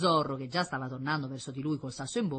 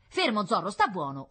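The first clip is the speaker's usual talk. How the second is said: higher, firm order to a dog; mild command; 6 semitones higher, 6 dB louder than usual. A narrator's reading. Boy calming his dog Zorro, commanding. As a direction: tell the dog to settle down. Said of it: "ordinò Paolo".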